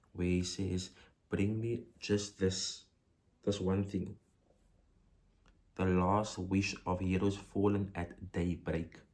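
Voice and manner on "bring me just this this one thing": forceful demand. Shown as a demonstration. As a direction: ask for it as a last order. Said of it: "It's a forceful tone, a demanding tone".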